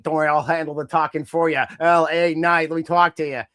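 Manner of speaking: hint of a wrestler's promo voice; LA Knight. Fan mimicking a wrestler offering to talk, lightly voiced LA Knight. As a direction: lightly imitate a cocky promo catchphrase. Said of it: "And L A Knight".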